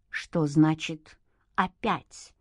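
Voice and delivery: put-on stern young man asking slowly; stern question. A narrator's reading. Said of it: "строго спросил Игнат".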